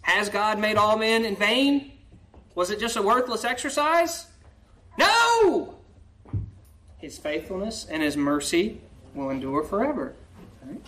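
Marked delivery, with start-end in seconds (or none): 5.0-5.7 shouted No, much higher; emphatic no. Real, not acted. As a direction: slam the answer down hard. Preacher answers own question.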